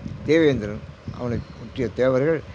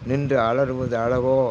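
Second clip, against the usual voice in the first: drawn-out devotional intoning; slow verse recitation; 2 semitones lower, slower than usual. Acted. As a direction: stretch each word of the hymn slowly. (மெதுவாக பாடல் ஓதுதல்)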